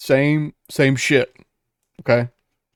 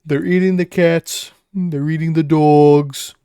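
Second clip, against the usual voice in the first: meme quote voice; 3 semitones higher, 6 dB louder, slower than usual. Retold or imitated. Quoting a meme.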